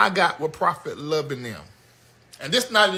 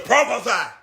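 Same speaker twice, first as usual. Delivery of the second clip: mock call-out; 4 semitones higher, 6 dB louder than usual. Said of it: "And somebody goes".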